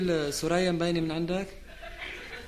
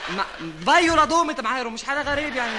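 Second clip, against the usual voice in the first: heated arguing; 4 semitones higher, 5 dB louder than usual. Acted. Heated argument.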